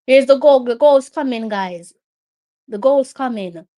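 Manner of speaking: loud, hopeful announcement; excited calling out. Real, not acted. Fan telling the guys a goal is coming, excited call. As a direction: call it out loudly to the other fans.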